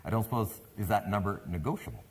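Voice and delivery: mildly deferential, careful question; very polite. Retold or imitated. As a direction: ask meekly and courteously. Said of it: "So I said very politely".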